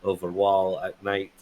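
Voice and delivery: put-on wobbly Greek accent drifting toward Russian. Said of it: "Sounds kinda Russian now".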